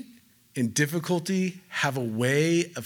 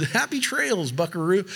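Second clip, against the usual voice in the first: hokey cowboy; 2 semitones higher than usual. Pretend. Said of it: "the most hokey thing I think I've ever said".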